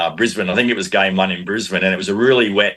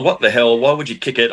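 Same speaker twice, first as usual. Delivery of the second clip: half-hearted mock yell, pitched up; alarmed outburst, only a bit raised; retold yelling; 3 semitones higher than usual. Retold yell at teammates before a chip kick, mild mock yell. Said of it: "I'm, like, yelling".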